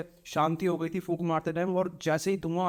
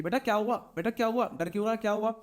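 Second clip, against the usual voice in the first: higher, anxious calls from the next room; family calling out in concern; worried relatives; 5 semitones higher than usual. Acted. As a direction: check on the frightened boy. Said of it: "इनकी आवाज़ आती है".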